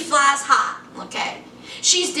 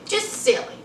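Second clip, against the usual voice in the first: muttered aside; 6 semitones higher, 5 dB quieter than usual. Real, not acted. Dismissing the silly scene.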